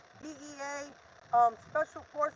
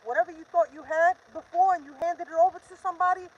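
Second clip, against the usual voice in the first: raised, heated voice building to a near shout; real frustration pushing the words out loud; angry; 3 semitones higher, 5 dB louder than usual. Real, not acted. Ranting to viewers about officials losing evidence, angry and loud. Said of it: "I'm just so pissed".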